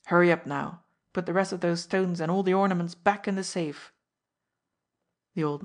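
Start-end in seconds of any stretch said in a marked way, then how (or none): 0.1-3.9 hardened. Acted. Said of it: "His voice hardened suddenly".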